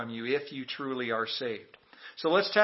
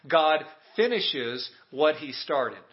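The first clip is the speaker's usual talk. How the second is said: slow call to repeat; 3 dB louder than usual. Shown as a demonstration. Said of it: "Say that with me".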